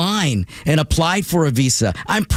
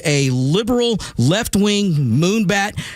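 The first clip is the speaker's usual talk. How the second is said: ordinary talk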